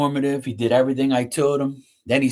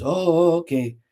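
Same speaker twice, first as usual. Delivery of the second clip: higher, amazed tone; impressed worker imitation; 5 semitones higher than usual. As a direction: sound amazed like the polite worker. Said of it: "He goes".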